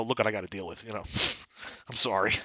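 husband's quiet aside to the seller about his wife; confiding aside. Acted. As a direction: lean in and murmur so the wife won't hear. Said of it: "you turn to the guy and go".

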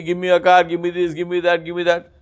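imitating a whiny son asking for things; mock begging. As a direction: parrot the begging son, lightly. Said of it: "all you can do is beg me".

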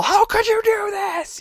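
high, slowed pleading wail of a wronged character; mock betrayed cry. Acted upset player in larp.

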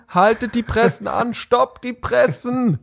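high, slow hammed-up alarm; dramatic stop call. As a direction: stop the presses like a newsroom boss. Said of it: "interrupts outro".

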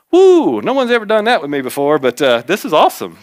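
high whooping delight, then settling; excited woo. Retold or imitated. Husband thrilled at girlfriend bringing her Bible, excited whoop. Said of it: "And I'm like".

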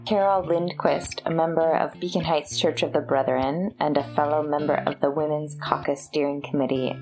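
muffled behind a mask; speaking through a cloth mask; through a face mask. Real, not acted. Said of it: "my voice sounds strange because I'm wearing a mask".

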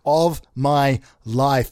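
jolly hammed-up announcement. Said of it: "bells on my ears".

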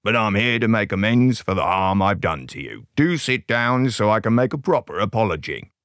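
croaky wolf making a plea; Uncle Big Bad. A narrator's reading. Unmasked wolf making amends to Soberina, croaked. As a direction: croak it like a repentant villain. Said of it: "croaked Uncle Big Bad".

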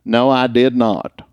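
drawn-out country accent; slow down into a rural southern Indiana twang; younger country voice. Shown as a demonstration. Radio man shows how he sounded before training, country accent. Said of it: "a little higher and a little bit more country".

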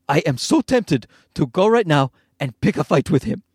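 imitated Egyptian dad accent; deliberate, comic Egyptian-accented indignation. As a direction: play an offended man with an Egyptian accent. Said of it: "closest thing I can get to an Egyptian accent".

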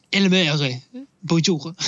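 mock French accent on the name. A Frenchman renting the film, French accent. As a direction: say it as a Frenchman would, second syllable stressed. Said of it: "om de uttalade väldigt franskt".

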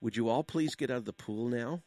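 soft, mild polite request; not so loud. Acted. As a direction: ask gently, without raising your voice. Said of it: "in a not so loud voice".

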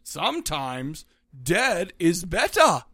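put-on Northeastern accent. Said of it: "in my best Northeastern accent".

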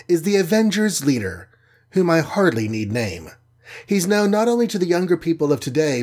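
the Wasp hypes her leader to the crowd; a lightly voiced excited host; proud announcer. Wasp introduces Captain America.

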